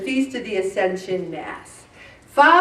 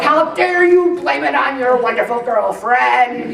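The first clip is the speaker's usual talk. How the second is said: mock indignant, laughing; mock outraged mother. Scolding the son for blaming his girlfriend, mock outrage. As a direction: fake the outrage with a grin. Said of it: "I'm like".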